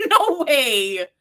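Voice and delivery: loud, high laughing exclamation; real laugh bubbling through the words; laughing disbelief. Real, not acted. Laughing at a listener's story.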